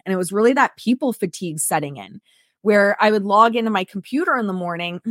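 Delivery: losing her voice, hoarse; a hoarse, worn-out voice. Real, not acted. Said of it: "Sorry, I'm losing my voice today".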